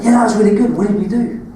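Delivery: excited and laughing; bright burst of delight. Retold or imitated. Excited reaction after good take.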